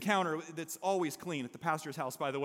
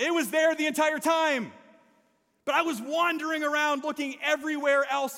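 emphatic shout; 6 semitones higher, 4 dB louder than usual. Real, not acted. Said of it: "emphatic punchline".

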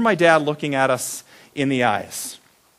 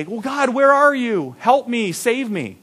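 desperate plea; 6 semitones higher, slower than usual. Retold or imitated.

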